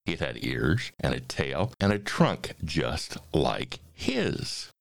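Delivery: animated rhyming storybook reading; story narration. A narrator's reading. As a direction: read the verse with big, playful swings. Reads a rhyming story aloud.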